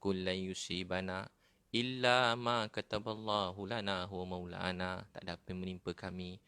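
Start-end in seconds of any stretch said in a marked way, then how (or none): 0.0-5.0 slow, drawn-out chanted Arabic verse; Quran recitation. Acted. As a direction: intone the verse slowly like tilawah.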